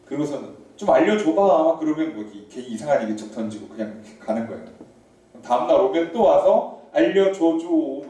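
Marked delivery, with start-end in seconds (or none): 0.8-1.8 nagging plea. Retold or imitated. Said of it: "이렇게 쪼아대면서". 6.9-8.1 nagging plea. Retold or imitated. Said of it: "이렇게 쪼아대면서".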